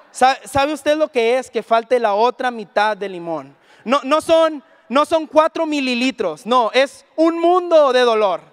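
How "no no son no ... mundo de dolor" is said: a louder, slow insistence on the pain; louder emphatic. Acted. Preacher to congregation, describing lemon pain, slow emphatic louder. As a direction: lean hard into the pain, slowly.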